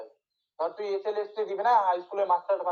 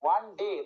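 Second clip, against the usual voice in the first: ডে weighted, jaw dropping as it lands; stress on ডে; slower than usual. Shown as a demonstration. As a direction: let the jaw fall on ডে. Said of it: "ডে বলার সময় মুখের টোয়ালটা নিচে নামছে".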